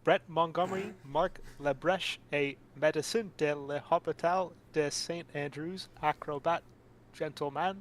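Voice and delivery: put-on slow, clumsy schoolboy French accent; bad French accent. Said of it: "do some of my grade eleven French".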